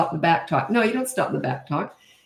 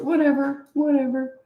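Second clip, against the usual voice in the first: dismissive; 9 semitones higher than usual. Real, not acted. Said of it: "brushing off grievance".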